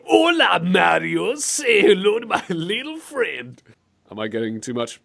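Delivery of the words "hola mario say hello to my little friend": high, drawn-out hammy catchphrase; put-on voice, slowly relishing every word; acted game villain catchphrase. Host voices Bowser greeting Mario, hammed-up slow character voice. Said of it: "we're just gonna have him go".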